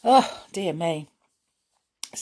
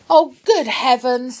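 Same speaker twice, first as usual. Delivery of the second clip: higher and louder gasp of alarm; 7 semitones higher, 8 dB louder than usual. Acted. Joe hearing Connie has gone, alarmed. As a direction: jump up in fright. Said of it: "jumping up in alarm".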